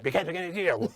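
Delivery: lightly voiced dad; a hint of the stern father. Voice actor as the dad, lightly voiced. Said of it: "I'm literally still just going".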